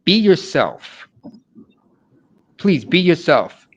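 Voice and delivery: slow, earnest pleading; pleading parents. Retold or imitated. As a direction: beg them gently to be themselves. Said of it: "my parents always telling me".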